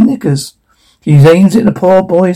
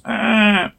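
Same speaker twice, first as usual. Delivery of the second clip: soft, higher mock growl; acted wolf growl; 6 semitones higher, 8 dB quieter than usual. Narrator acts the wolf, soft growl. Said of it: "red wolf growls".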